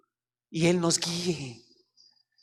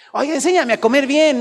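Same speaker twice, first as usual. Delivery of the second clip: raised, louder mock plea; mock request; 7 semitones higher, 6 dB louder than usual. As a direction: play a whiny believer asking. Mock prayer asking to eat well.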